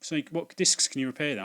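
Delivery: mock naive question; playing dumb. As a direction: innocent customer act. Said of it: "playing dumb".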